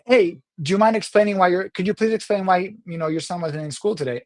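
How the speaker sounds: friendly polite request, lightly lifted; nicely. Shown as a demonstration. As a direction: ask it nicely, casual and easy. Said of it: "I could have read it nicely".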